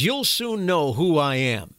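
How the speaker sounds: slow, imitating a Middle Eastern accent; menacing line in a Middle Eastern accent. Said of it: "And he spoke with a Middle Eastern accent".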